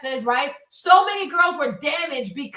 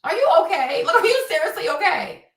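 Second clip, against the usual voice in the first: mock incredulous concern; 7 semitones higher, 3 dB louder than usual. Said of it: "He's like".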